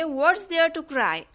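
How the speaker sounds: very slow, clear; slow dictation. Shown as a demonstration. Teacher modelling the sentence for learners, slow. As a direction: model it slowly. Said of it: "तो इसे हम बोलेंगे".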